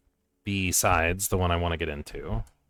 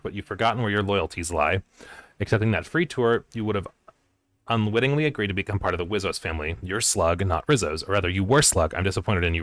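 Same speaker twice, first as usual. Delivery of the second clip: stern, louder read of a formal notice; dramatic message reading; 3 dB louder, faster than usual. Acted. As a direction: read it like an official reprimand. Reads out in-game termination message.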